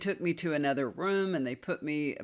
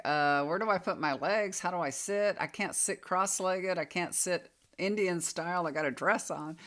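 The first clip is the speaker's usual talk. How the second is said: slightly raised, lightly fretful run of questions; mildly flustered self-quote; 3 semitones higher than usual. Retold or imitated. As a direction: voice your own mild fluster. Voicing her flustered thoughts on sitting.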